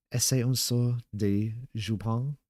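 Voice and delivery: slow, disgusted French noble. Acted. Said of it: "in a tone of disgust".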